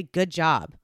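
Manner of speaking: low, grudging praise; grumpy. Shown as a demonstration. Parent grumpy from work praising the kids, grumpy tone. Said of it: "you're grumpy from work".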